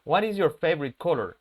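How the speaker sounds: "What is" said as two full words; words pronounced separately. Shown as a demonstration. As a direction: keep "is" uncontracted after "What". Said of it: "las pronunciemos por separado".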